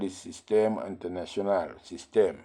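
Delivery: French-accented term, spoken as a teacher would; French pronunciation. Shown as a demonstration. Teacher giving the French name of the unit system, French pronunciation. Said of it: "in France, it is called".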